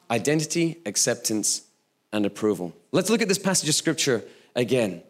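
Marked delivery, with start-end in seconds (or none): 0.1-2.7 each point set apart and fading softer; three points spelled out. Shown as a demonstration. Measured list, dropping softer. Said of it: "Three points".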